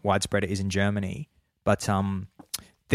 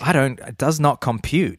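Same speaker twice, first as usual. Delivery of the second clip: robot voice; 4 semitones higher than usual. Retold or imitated. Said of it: "They might even go like this".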